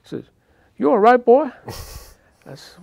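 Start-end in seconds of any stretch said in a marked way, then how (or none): 0.8-1.5 put-on high, loud gruff question to a kid; mock concerned cook; Mister Eddie's voice. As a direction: play the diner cook checking on the boy.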